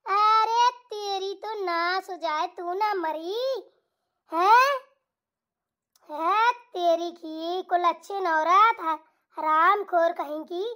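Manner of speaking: put-on slow, grumbling old mother-in-law curse; cursing mother-in-law. Mother-in-law curses her daughter-in-law, slow and grumbling. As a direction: drag the curses out slowly, half-voiced old woman.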